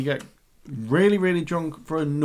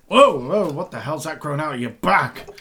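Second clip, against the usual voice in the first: mock taunt; 2 semitones higher than usual. Heckler mocks Ned.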